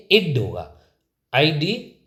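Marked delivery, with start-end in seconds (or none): 0.1-0.4 ED ending said as "इड", short i before d; crisp teacher's model of "इड"; pronunciation demo. Shown as a demonstration. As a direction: say "इड" with a short i vowel. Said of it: "ईडी का जो pronunciation है".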